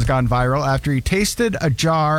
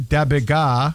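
slurred "Da bit ga"; teen's mumbled accent; 2 semitones lower, slower than usual. Retold or imitated. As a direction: say it mumbled like the teen. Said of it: "is that bitch is gas".

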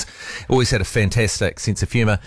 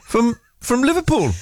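put-on a much higher Liverpool accent breaking into laughter; Liverpool accent, laughing; 13 semitones higher than usual. Host cracking up during his Liverpool accent attempt. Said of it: "Do you wanna give it another go?".

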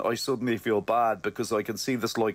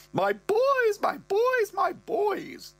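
gushing mother; much slower than usual. Retold or imitated. Mother rushing to her sons, high excited falsetto. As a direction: gush over them like a doting mum.

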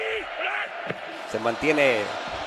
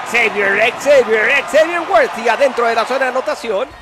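screamed touchdown call, much higher and louder; excited play-by-play; 7 semitones higher, 3 dB louder than usual. Real, not acted. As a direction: yell the name, ride the peak. Narra en vivo el touchdown. (grito eufórico de touchdown)

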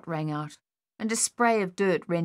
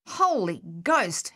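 slow amazed exclamation; old soldier amazed at the return; exclaimed; slower than usual. Acted. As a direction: let it burst out in wonder. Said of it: "Harold exclaimed".

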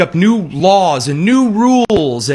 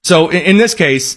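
usual speaking voice

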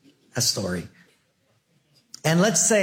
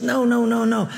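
emphatic no; 9 semitones higher, 4 dB louder than usual. Acted. God's voice correcting in sermon.

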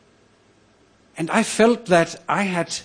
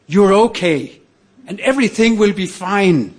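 raised, emphatic reassurance; reassuring; 5 semitones higher, 5 dB louder than usual. Retold or imitated. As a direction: give firm encouragement in a higher pitch. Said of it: "what he was saying".

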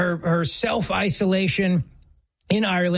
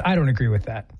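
much lower, put-on deep voice; mock deep voice; 8 semitones lower than usual. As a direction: drop it low in mock protest. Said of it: "women with deep voices".

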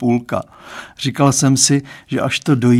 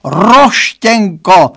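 slower, higher drawn-out wail; father wailing the nickname once more; lamenting; 7 semitones higher, 7 dB louder, much slower than usual. A narrator's reading. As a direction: stretch the nickname in mock despair. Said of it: "zanaříkal".

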